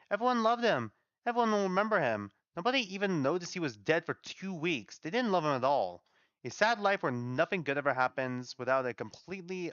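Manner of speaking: indignant venting, pitch jumping up on the bitter points; angry. Acted. Solian venting that nobody loved him, angry. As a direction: rant in bitter frustration. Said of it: "That makes me angry".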